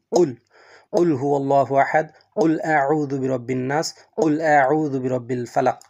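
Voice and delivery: "কুল" with a heavy Arabic q, like water gurgling; gurgling Qaf. Shown as a demonstration. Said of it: "একটা কল কল শব্দ হয়". ("কুল" পানির কল কল শব্দের মতো ভারী ক্বাফে)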